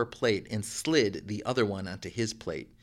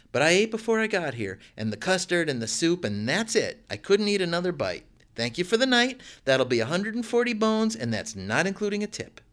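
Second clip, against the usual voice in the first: higher, brisk and businesslike; the call girl presenting her bill, higher; woman's voice; 7 semitones higher than usual. A narrator's reading. Woman character demanding pay.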